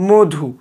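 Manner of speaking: মধু with closed "o", as "modhu"; as pronounced. Shown as a demonstration. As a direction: round the first vowel of মধু. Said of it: "তাহলে এটা কি হবে?".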